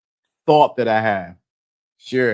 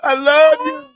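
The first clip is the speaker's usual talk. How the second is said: high mock-sobbing wail; crying; 11 semitones higher, 3 dB louder than usual. Crybaby telling his girl he loves her, mock crying. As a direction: blubber it, hammed up. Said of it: "If you cry".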